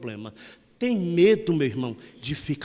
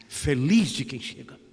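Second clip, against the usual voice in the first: louder, proclaimed repeat of the blessing; ringing blessing; 5 dB louder than usual. Acted. To his grandmother, proclaiming the blessing out loud. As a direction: say it again, ringing out to the room.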